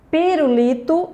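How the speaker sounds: teacher's demo of "Pirulito", stressed on li. Shown as a demonstration. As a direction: model "Pirulito", leaning on the syllable li. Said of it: "a sílaba tônica li".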